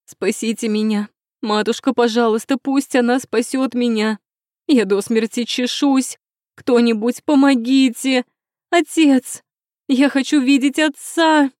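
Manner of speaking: starts pleading, ends in high, loud screams; delirious begging, building to screams. A narrator's reading. Feverish princess crying out to her mother and father, begging turning to screams. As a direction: beg harder and harder until you scream for father.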